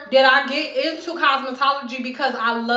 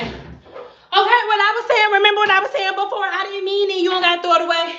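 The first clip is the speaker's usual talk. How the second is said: higher, fast mock take-back; imitating herself backpedaling; 5 semitones higher, faster than usual. Stylist imagined backpedaling to client, lightly higher and quick. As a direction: rush it out like backing down. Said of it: "they be thinking I'm gonna be like".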